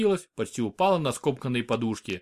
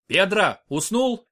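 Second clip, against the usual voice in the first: loud, higher call to a comrade; a guard shouting at his partner mid-brawl; 6 semitones higher, 4 dB louder, slower than usual. A narrator's reading. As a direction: yell across the fight.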